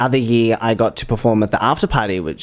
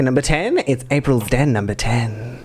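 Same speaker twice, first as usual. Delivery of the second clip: bingo caller. Shown as a demonstration. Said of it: "I'll give you a bingo test then".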